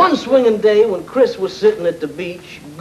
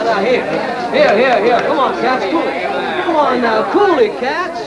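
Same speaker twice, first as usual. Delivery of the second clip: calling out; 4 semitones higher than usual. Acted. Hipster calming a rowdy class.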